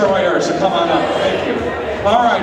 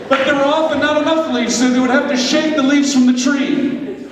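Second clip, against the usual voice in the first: lively storybook narration; storytelling narration; 3 semitones higher than usual. Acted. Preacher narrating a skit to the congregation, storybook style. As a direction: tell it like a children's tale.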